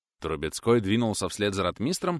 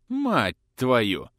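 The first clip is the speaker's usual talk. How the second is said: blurted curse; 2 semitones higher, 4 dB louder than usual. A narrator's reading. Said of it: "вырвалось у князя".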